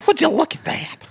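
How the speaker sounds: high squeaky mock voice, far from his own; a funny high falsetto character voice; put-on silly voice. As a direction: pitch it way up into a cartoonish character. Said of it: "whatever the voice that was the other night".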